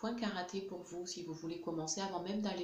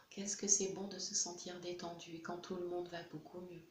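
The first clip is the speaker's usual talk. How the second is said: lightly voiced baby; 3 dB louder than usual. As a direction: voice the upset infant letting feelings out. Voicing the baby relaxing.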